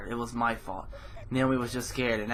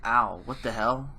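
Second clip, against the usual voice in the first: pained groan of a sprained ankle; 4 dB louder, slower than usual. Acted. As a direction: wince through the pain, slow and a little louder. Sprained ankle, tries to stand.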